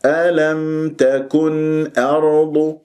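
slow chant, clear unclipped n in تكن before أرض; clear izhar. Shown as a demonstration. Teacher shows the way to say ألم تكن أرض, slow chanted izhar. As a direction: recite ألم تكن أرض slowly, each consonant complete. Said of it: "بهذه الطريقة".

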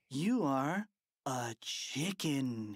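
mock hypnotist. Boy commanding hypnotized principal.

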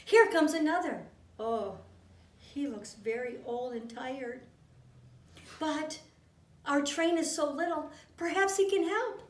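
hopeful cry. Acted. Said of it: "cried the little toy clown".

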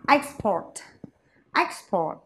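"Export" as a noun, EX-port, stressed on EX; first-syllable stress. Shown as a demonstration. Teacher models the noun for students, first-syllable stress. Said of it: "thì lại là âm tiết số một".

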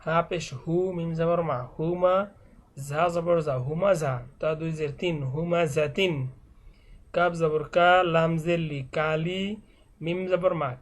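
measured letter-by-letter Quran primer reading; spelling drill recitation. Shown as a demonstration. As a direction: recite each spelling, then join the syllables. Spells Arabic words aloud as drill. (বানান করে টেনে টেনে পড়া)

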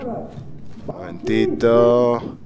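very slow, stretched-out words; stalling for time. Real, not acted. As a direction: draw it out while concentrating. Stalling while lining up move.

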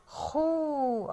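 long, held خو with rounded lips; rounded damma sound. Shown as a demonstration. Teacher showing damma on the first letter of bat, drawn-out خو. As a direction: stretch خو into one long "khoo". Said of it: "حرف الخاء عليها ضمة".

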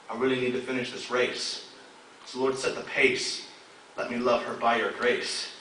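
hushed, measured poetic plea; spoken word poem. Acted. Poem winds down to close.

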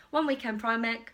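ordinary talk, nothing marked

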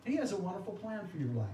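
lightly voiced cheery street evangelist; mock evangelist pitch. Imitating Campus Crusade evangelists approaching people, light mock cheer. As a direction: rattle off the friendly pitch quickly. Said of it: "that's what they would say".

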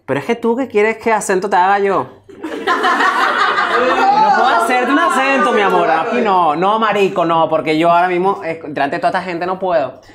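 put-on high-pitched playful Venezuelan accent. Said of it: "tu mejor imitación del acento venezolano". (acento venezolano agudo, protestando)

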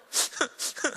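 imitated whimper. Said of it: "하기 시작하더니".

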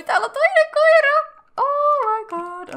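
very high, loud delighted squeal; excited squeal. Real, not acted. Player thrilled to see another dog, high squeal. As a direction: squeal with joy at the new dog.

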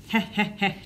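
a mild, narrated heh-heh chuckle. A narrator's reading. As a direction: brother enjoying Kyle's coming trouble. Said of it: "chuckled Mike behind Kyle".

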